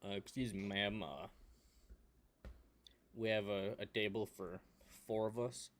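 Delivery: soft, hesitant ask for a table; politely and quietly get the host's attention; polite request. Acted. Diner asking the restaurant host for a table, soft and polite.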